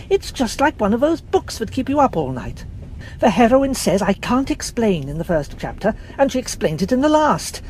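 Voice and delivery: lightly voiced young man, excited and gushing; eager young man. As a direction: rattle on like a thrilled schoolboy. George gushes about the mystery.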